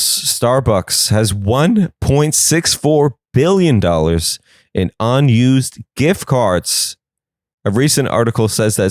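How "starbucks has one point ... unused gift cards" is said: slow emphatic. Shown as a demonstration. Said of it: "Did you hear about this?".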